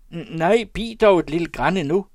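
high, loud stammered plea; råb. A narrator's reading. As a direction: cry out for a moment's delay. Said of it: "råbte hin igen". (højt, stammende råb)

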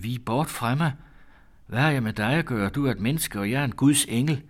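mild shout. Acted. Daughter drives away her sweetheart, mildly shouting. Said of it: "og råbte".

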